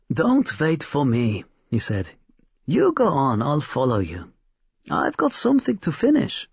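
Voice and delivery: put-on excited old man hurrying his daughter off; bustling, pleased with a secret; lightly voiced old craftsman; old toymaker. A narrator's reading.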